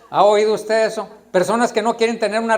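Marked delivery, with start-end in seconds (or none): 0.1-1.1 ¿Ha oído usted eso? repeated with more force; louder repeat. Shown as a demonstration. Preacher pressing the congregation, louder insistent question.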